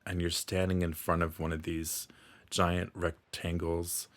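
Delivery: unhurried meditation guide, long pauses between phrases; guided meditation. Acted. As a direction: gently lead the listener through calming imagery.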